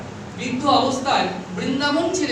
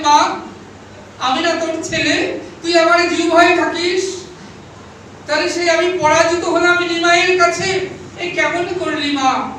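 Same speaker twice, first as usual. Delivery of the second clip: pleading cry; 3 semitones higher, 5 dB louder than usual. Acted. Keshab pleads to Saraswati.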